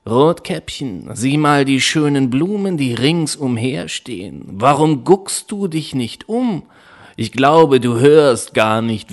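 lightly voiced wolf luring the girl; sly wolf. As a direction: sweet-talk her off the path. Wolf tempts Rotkäppchen.

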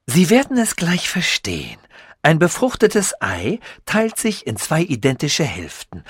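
lightly voiced, pleased with his own genius; proud scientist voice. Sasul boasts to Tichy, lightly voiced proud inventor. Sasul explains twin method.

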